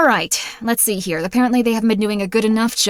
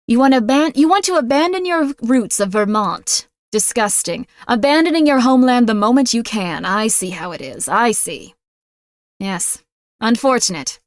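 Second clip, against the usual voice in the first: mock offended. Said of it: "I'm doing a voice".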